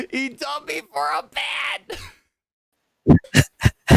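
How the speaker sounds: high-pitched mock wail, exploding on the last word; hammed-up jilted-girlfriend cry; heartbroken outburst. Jilted Yumi complains to Aelita about being dumped, hammed-up heartbroken outburst.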